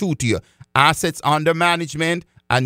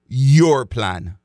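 "Your plan" leaned on, louder; stress on your plan; 3 semitones lower, 3 dB louder than usual. Shown as a demonstration. Planner stressing to folks: "Your plan" said louder. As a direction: punch "Your plan" to drive it home. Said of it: "I emphasize the word when I says your plan".

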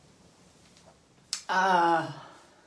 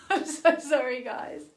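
laughing through tears; 5 semitones higher than usual. Real, not acted.

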